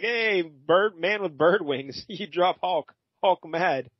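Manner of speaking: mock-angry monster quote, pitched slightly up; lightly voiced mad brute, words spaced out; angry Hulk. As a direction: play at a simple-minded monster's grievance. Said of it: "Hulk gets mad 'cause he's like".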